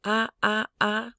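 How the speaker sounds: "Ah" held high and level; high bell tone. Shown as a demonstration. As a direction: ring each "ah" high like a bell. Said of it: "this is a high bell tone".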